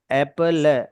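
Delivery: "एप्पल" drawn out, final E left unsounded; silent E. Shown as a demonstration. Teacher explaining silent letters to a student, "एप्पल" without final E. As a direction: end "एप्पल" on the L, no E. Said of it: "ये ई नहीं बोला जा रहा है".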